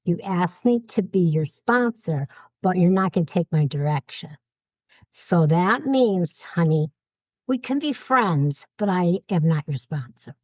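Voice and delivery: measured, calm retelling of a firm boundary. Retold or imitated. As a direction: set the boundary calmly, without raising your voice. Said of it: "And I said it very calmly".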